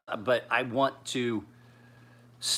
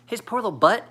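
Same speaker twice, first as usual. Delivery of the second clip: high, mock-sweet church lady gossip; grandma fretting to the church ladies, high and sugary; grandmother voice; 11 semitones higher, 6 dB louder than usual. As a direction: imitate a fussy grandmother cooing. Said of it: "And she's like".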